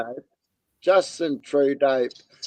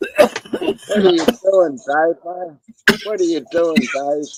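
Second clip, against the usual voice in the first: teasing call-out; 5 semitones higher, 3 dB louder than usual. Pretend. Calling out to Dave teasingly.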